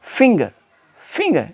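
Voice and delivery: फिंगर with only a slight ng; touch the ng of फिंगर lightly. Shown as a demonstration. Teacher recapping for students: फिंगर with a slight ng. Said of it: "slight sound है".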